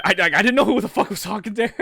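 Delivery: talking through real laughter; laughing. Real, not acted. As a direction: stammer it out while cracking up. Player cracks up mid-play.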